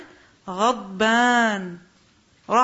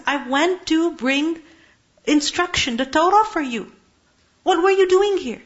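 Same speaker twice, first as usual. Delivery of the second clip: rising rebuke. Retold or imitated. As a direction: scold the people, climbing as you go. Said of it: "قال, he said".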